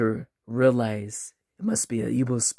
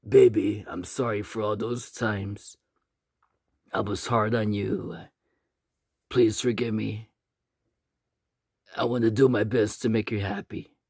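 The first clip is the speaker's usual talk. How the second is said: apologetic husband; 2 semitones lower than usual. Acted. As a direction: gently ask her forgiveness. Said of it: "he looks at his wife and he says".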